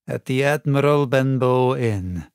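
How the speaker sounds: easy smug drawl; sly pirate. Acted. Black Dog growing at ease with the captain, slow and smug.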